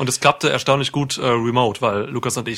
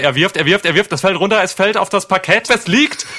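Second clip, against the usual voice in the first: rising, louder play-by-play call; frantic mock sports commentary; 6 semitones higher, 5 dB louder than usual. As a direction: build the throw like a live match call. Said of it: "wie ein Sportkommentator". (aufgeregter Sportkommentar, immer höher und lauter)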